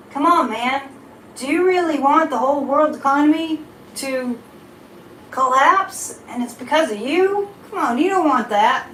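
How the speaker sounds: half-hearted Biden, pushing the catchphrase; bad Biden impression, lightly voiced; Joe Biden impression. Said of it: "That was my Joe Biden impression".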